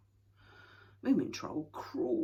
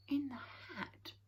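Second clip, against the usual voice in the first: suspicious; 8 semitones higher, 3 dB quieter, slower than usual. A narrator's reading. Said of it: "said the Snork suspiciously".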